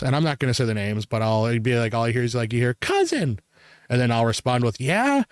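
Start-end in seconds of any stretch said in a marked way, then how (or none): 2.7-3.4 high-pitched holler across a store; mock yell, pitched way up; imitated calling out. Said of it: "one of us yell our names". 4.8-5.2 high, rising answering call; mock reply hollered across the aisles; calling back. Answers cousin's call across store.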